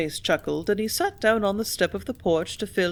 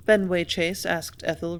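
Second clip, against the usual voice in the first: plain reading voice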